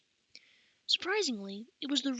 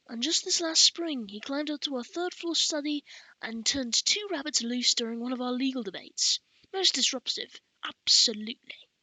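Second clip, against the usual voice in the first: indignant scribe master; 2 semitones higher, 4 dB louder than usual. Acted. Scribe master reports the boy's rabbit prank to the baron, indignantly. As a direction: complain emphatically as a put-out scribe master.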